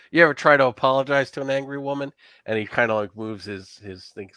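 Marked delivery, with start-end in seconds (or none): 0.1-2.1 laughing pirate. Acted. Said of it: "One of the pirates laughs and says".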